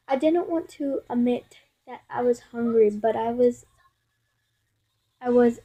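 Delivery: measured storybook reading; halting read-aloud narration; story read-aloud. Acted. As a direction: read the story out steadily, with pauses between phrases.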